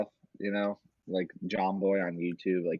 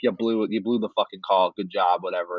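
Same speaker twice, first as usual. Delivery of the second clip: angry rant; 4 dB louder than usual. Retold or imitated. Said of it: "mad that the first base ump, like, blew the call".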